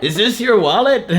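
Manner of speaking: high, laughing cartoon voice; Patrick impression. Quoting the SpongeBob episode in a high cartoon voice. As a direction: squeak it like Patrick. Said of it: "Patrick and Man Ray".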